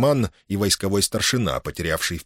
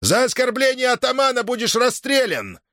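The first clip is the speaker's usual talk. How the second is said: high, barked order to the guards; raging command; 14 semitones higher than usual. A narrator's reading. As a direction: pass sentence in a fury. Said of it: "скомандовал он конвойным". (гневный приказ конвою, высоко и громко)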